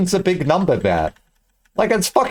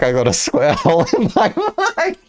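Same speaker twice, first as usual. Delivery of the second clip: slow, put-on rapper voice with a laugh breaking in; mock rapper drawl, lightly voiced; a rapper. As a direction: drag it out like a lightly done bar from a famous rapper. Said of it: "this rapper be like".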